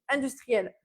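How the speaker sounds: "industriels" said alone, firm, falling; stressed repeat. Shown as a demonstration. Nutritionist insisting to viewers, repeating "industriels" firmly. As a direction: isolate and underline "industriels". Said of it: "je précise".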